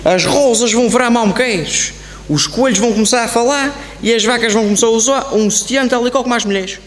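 loud, declaimed fortune-teller's prediction; proclaiming a prophecy. Acted. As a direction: announce wonders to the whole hall, loudly.

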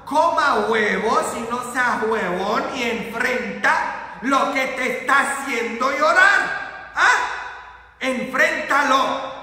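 emphatic, rising exhortation; preacher driving the challenge home; forceful preaching. Acted. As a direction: urge the congregation to face it.

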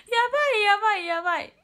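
high, loud laughing panic. Real, not acted. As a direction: squeal it through laughter. Panicked laughing about being heard. (笑いながら高い声で慌てる)

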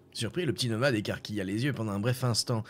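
ordinary talk

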